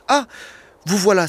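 a touch of glad surprise; mild exclamation. Acted. Bishop greeting the returned convict, mild glad exclamation. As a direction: greet him with a lifted voice. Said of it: "s'écria-t-il".

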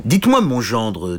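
mild royal displeasure; stern king. Acted. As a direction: address the son-in-law sternly. Furious king addresses knight.

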